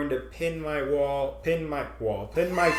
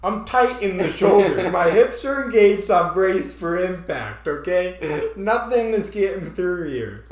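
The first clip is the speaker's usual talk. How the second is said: mock braced; 2 semitones higher, 5 dB louder than usual. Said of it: "'Cause I was like".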